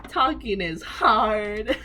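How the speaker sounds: slow, laughing through the words; laughing drawn-out quote. Retold or imitated. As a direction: stretch it out, giggling. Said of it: "and I'm like".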